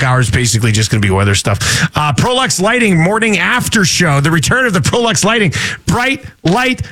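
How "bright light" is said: announcer voice. Acted. Announcing a segment title.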